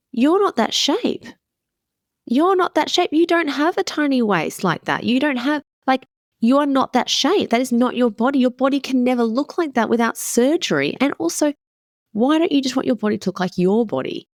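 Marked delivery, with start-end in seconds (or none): 0.1-10.9 much higher, pressing the point home; firmly reassuring a friend, pitched up; insistent. Retold or imitated. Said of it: "I said".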